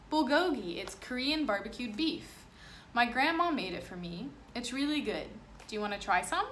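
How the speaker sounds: put-on new boy sharing grandma's food; friendly boy. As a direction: offer it warmly. Boy offers food kindly.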